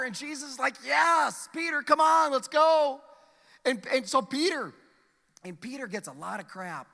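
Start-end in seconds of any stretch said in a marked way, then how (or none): 0.8-3.0 louder, higher cheerful "come on"; eager invitation. Acted. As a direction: urge Peter on with excitement. Jesus cheerfully invites Peter.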